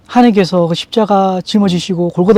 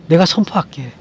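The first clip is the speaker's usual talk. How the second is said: soft vow; 5 dB quieter than usual. Retold or imitated. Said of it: "그 얘기했죠".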